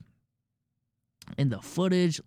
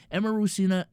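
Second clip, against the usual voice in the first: Emeru Sina with a hint of Filipino accent, vowels pure and open; a fleeting Filipino accent on the name Emeru Sina; slip of Filipino accent; 3 semitones higher, faster than usual. Real, not acted. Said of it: "my Filipino accent just came out".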